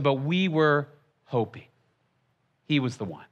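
soft, low, understated disappointment; crushed hope. Acted. Disciples tell Jesus their hopes have been crushed, understated dejection. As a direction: let the hope sink away, hushed and halting.

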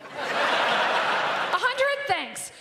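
sarcastic thanks. Retold or imitated. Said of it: "calling my own friends going".

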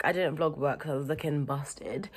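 hushed whisper. Real, not acted. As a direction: whisper it as a secret. Confiding aside.

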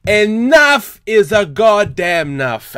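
angry. Real, not acted. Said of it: "I'm just angry".

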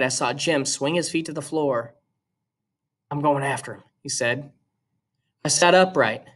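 steady, even read-aloud voice; reading a novel aloud to students; story narration. A narrator's reading. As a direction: read the chapter to the class. Teacher reads novel aloud to class.

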